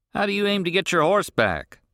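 gruff rancher. Acted. Rancher questions the boy on the road, irritated. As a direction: demand an answer, irritated.

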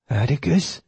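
high, whining hound; whining dog. A narrator's reading. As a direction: whine it like a guilty dog. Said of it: "he practically whined".

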